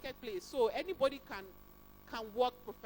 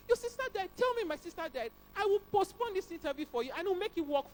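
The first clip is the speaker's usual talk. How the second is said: emphatic; 8 semitones higher, 6 dB louder than usual. Retold or imitated. Recruiter voicing sympathetic reply.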